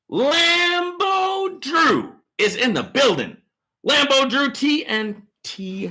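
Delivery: long drawn-out high announcer shout; hype intro. Real, not acted. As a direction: belt it like a ring announcer.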